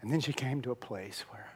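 ordinary talk

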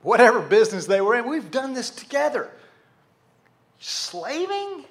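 high, incredulous protest; offended disbelief. Acted. Dad objecting to his son's word, offended disbelief. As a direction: end on a high, disbelieving echo. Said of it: "how does that make you feel if you're the dad".

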